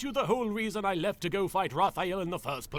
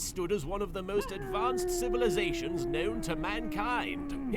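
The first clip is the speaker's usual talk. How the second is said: grand proclamation; 11 semitones higher than usual. Acted. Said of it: "Who's yelling?".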